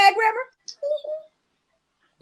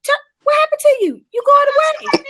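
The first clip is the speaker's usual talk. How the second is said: much higher, quick teasing call; high mock worry; 10 semitones higher, 3 dB louder than usual. Friend teasing a tipsy friend, high mock alarm. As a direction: call out teasing as if she's drifting off.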